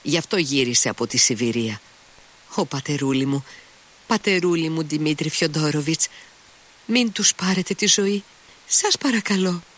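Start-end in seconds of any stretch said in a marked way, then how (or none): 2.5-9.6 begging maid. Acted. Fenya keeps begging Mitya.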